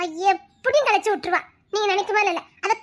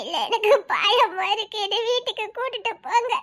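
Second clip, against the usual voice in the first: tearful fearful pleading. Acted. Frightened girl pleading.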